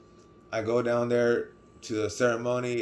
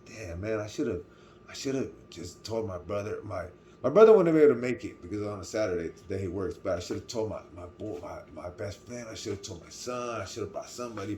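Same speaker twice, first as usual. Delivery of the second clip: sad inner thought. Retold or imitated. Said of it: "I got a little sad because I was thinking".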